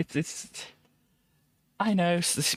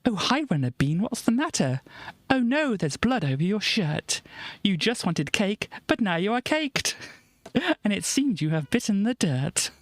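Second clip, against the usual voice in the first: lightly raised sing-song recitation; the speaker's limerick; 5 semitones higher than usual. Acted. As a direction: recite the limerick with mock cheer. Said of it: "And Marius goes".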